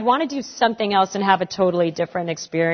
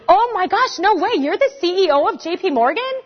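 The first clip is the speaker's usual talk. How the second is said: mock amazement; 8 semitones higher than usual. Mocking the banker's boast.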